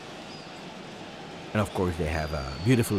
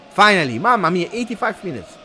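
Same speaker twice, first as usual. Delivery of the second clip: exasperated relief; 8 semitones higher, 4 dB louder than usual. Real, not acted. Relief at the card.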